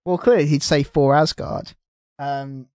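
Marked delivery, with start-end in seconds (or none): 0.8-1.7 FOR with f in place of th; th-fronted FOR before Asgard. Real, not acted. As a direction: say Thor as FOR, f at the start. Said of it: "a word I cannot say correctly".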